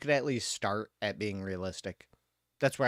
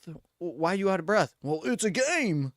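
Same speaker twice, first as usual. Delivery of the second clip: fast, higher, louder back-and-forth; mock exchange; 6 semitones higher, 4 dB louder than usual. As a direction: argue with the character in silly voices. Mock dialogue with character.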